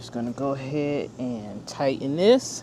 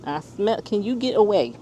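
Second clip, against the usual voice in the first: alarmed; 6 semitones higher than usual. Real, not acted. Smelling gas, alarmed.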